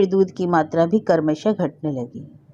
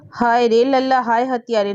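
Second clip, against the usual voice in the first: crying out; 5 semitones higher than usual. A narrator's reading. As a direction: cry out in anguish at the culprit. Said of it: "Nandini ने रोकर कहा". (रोते हुए ऊँचे स्वर में विलाप)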